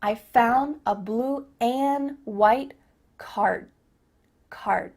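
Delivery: slow "and" as "an", unreleased "card"; deliberate word-by-word demo; cut-off D. Shown as a demonstration. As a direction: stop before the d in "card". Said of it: "cut off that final D sound".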